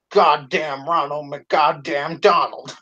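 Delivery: slow, drawn-out quote in a put-on voice; imitated cursing catchphrase. Quoting the edited video to a friend, slow imitated cursing. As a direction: mimic the comic's drawn-out swearing. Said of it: "and then it's followed by".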